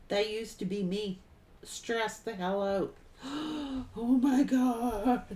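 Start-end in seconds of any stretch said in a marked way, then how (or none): 3.2-3.9 put-on sharp panicked gasp, demoing old self; stressed gasp. Shown as a demonstration. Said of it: "I used to stress out like this". 4.0-5.4 slow, dragged-out mock panic; stressed out. Shown as a demonstration. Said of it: "I used to stress out like this".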